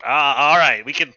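backing down. Acted.

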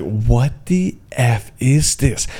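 horrified. Retold or imitated. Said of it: "I was like".

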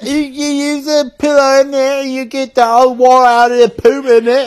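high, put-on British TV presenter voice; hammed-up British documentary host; mock posh British. Friend mocking a nature show, in a put-on British accent.

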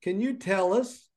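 high, loud teacher calling on a pupil; teacher calling roll. Retold or imitated. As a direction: call the full name like a strict teacher. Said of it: "this is how Missus Bellamy would say it".

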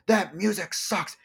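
high, drawn-out heckle at normal volume; mock yell. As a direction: imitate a heckler yelling, stretching the words. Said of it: "he's yelling at me".

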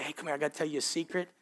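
low, quick, soft come-here; secretive hush. Retold or imitated. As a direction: lure them in with a quiet secret. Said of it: "You get real close".

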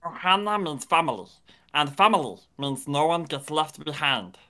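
lightly voiced alien Stitch. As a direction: rasp it out as Stitch, only a hint. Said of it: "Stitch voice".

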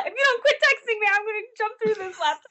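high, fast exasperated scolding; mock threat. Actress to castmate who keeps texting her, mock threat. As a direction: playfully threaten in a high, hurried voice.

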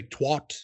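"twat" as TWOT, open AH vowel; expected "twat". Shown as a demonstration. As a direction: rhyme "twat" with "hot". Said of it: "you guys would say".

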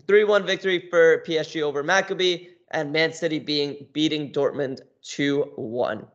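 breathless after a long list; winded, short of air; out of breath. Real, not acted. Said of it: "I'm out of breath".

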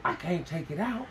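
lightly mumbled monologue, long pauses; mock dramatic actor. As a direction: play a brooding TV hero with a full mouth. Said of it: "why does he do that at the end of every sentence".

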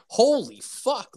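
high, slow drawn-out exclamation; mock shock. Boys to the cop after being caught, mock shock. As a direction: stretch it out as a stunned kid.

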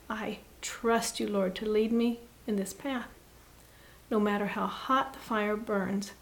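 steady, gentler prayer of faith; trusting prayer. Acted.

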